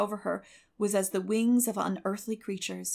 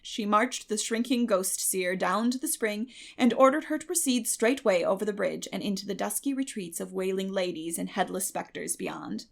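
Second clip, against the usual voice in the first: plain reading voice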